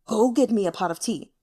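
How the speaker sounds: a stranger losing patience with the frozen courtesan; impatient command. Acted. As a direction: snap the order. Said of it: "his tone grew impatient".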